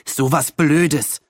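slow, mildly cross complaint; understated annoyed grumble; grumbling. A narrator's reading. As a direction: scold at the bad luck, drawn out. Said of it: "schimpfte George".

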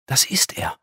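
reverent whisper; awed whisper. Acted. Angel showing the boss's face, awed whisper. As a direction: breathe it in awe of the boss. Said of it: "flüsterte der Engel ehrfürchtig".

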